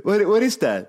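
lightly voiced dazed pop star; mock pop singer. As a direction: ask like a clueless pop star. Mocking a pop singer on stage.

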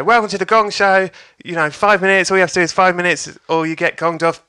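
lively mock MC welcome; gong show host. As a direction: announce it to a packed room.

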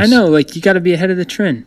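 hammed-up, playful self-parody; theatrical. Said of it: "I'm a theatrical guy".

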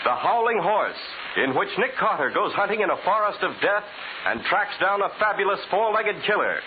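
usual speaking voice

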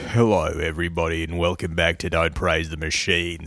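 a touch of deep throat; deep morning voice. Shown as a demonstration. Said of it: "I got that Tibetan throat".

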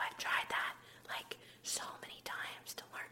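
soft whispered admission; whispering. Real, not acted. Host whispering to listeners about her failed attempts. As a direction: whisper it like a secret. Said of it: "I don't know why I'm whispering".

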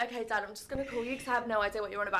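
hammed-up tearful okay; mock whine. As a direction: whimper it like you're about to cry. Acting out her reply to dad.

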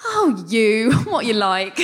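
mock-exasperated girlfriend, laughing through it; indulgent girlfriend. Blonde girlfriend to the funny main guy, fondly scolding. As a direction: play the tutting sitcom girlfriend. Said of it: "she just crosses her arms and goes".

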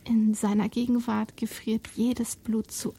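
soft, eerie whisper. Acted. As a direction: breathe it like a ghost.

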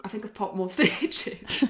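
slow quote breaking into a laugh; laughing retelling. Retold or imitated. Patient calling the doctor, amused mock confession. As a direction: let a laugh break through the admission.

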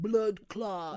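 slow, drawn-out imitation Jamaican; mocking Jamaican accent. Retelling what a girl said mid-conversation, mock Jamaican accent. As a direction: mimic a put-on Jamaican accent. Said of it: "you're actually mocking Jamaican people".

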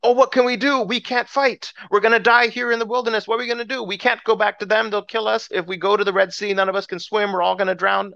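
high-pitched mock panic; panicked crowd. Israelites trapped at the Red Sea, mock panic. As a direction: wail in run-on dread like a frightened crowd.

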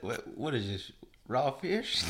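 put-on hammy Southern accent, rising; shocked Southern yokel at raw fish. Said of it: "You gotta be like".

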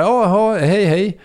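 high, rising polite greeting; polite brush-off. Retold or imitated. Imitating the musician's puzzled reply, high and polite. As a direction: play the politely puzzled star.

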